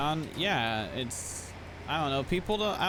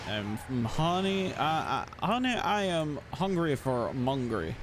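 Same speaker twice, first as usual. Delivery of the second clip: put-on southern accent; 3 semitones higher, slower than usual. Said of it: "trying to talk like me".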